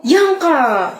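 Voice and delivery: mild yell of the friend's name; calling out sharply. Acted. Crush calling out to the teasing friend, mild yell. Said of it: "Ba't ka sumisigaw?".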